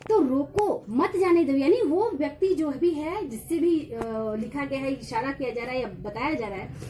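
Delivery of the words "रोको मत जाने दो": "रोको" set apart, then "मत जाने दो" together; short comma break after रोको, then the rest; pause after रोको. Shown as a demonstration. Teacher reading the stop-them sense, pause after "रोको". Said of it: "उसको रोकना है, जाने नहीं देना है".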